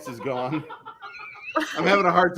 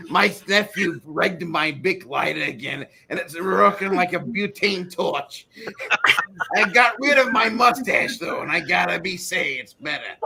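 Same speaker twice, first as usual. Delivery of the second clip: put-on old lady voice. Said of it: "Oh, that's horrible".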